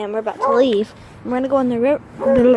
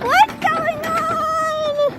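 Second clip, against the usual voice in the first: dog's voice; much slower than usual. Retold or imitated. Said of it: "She's like".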